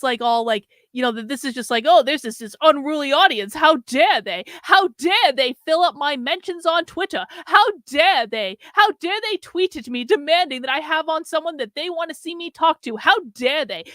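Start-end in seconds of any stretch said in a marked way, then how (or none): 1.9-13.8 louder, whiny mock indignation; mock outrage. Commentator mocking Tim's complaints, hammed-up whiny outrage. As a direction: parody a pearl-clutching complaint. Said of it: "And to say that they're just".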